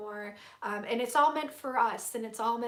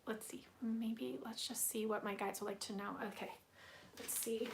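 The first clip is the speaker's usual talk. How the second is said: whisper; 10 dB quieter than usual. Real, not acted. Reader consulting guides under breath.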